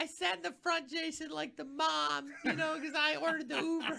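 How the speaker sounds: put-on girl voice, pitched very high. Retelling a drunk message from the studio sponsor: put-on girl voice. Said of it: "I'm trying to do a girl voice".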